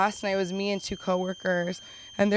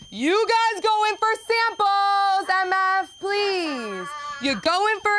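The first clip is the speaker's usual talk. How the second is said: mock pleading; 11 semitones higher, 3 dB louder, slower than usual. High slow put-on voice.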